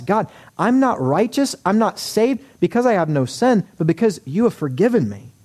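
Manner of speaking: earnest confession. Acted. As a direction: pour it out as a contrite sinner. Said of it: "Abraham should believe that and confess".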